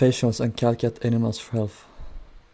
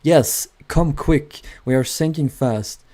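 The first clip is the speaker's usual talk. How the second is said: higher, louder, slow desperate plea; mock panic; 4 semitones higher, 5 dB louder, slower than usual. Sinking ship crew pleading over radio, mock panic. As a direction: stretch out come quick in mock desperation. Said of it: "They were like".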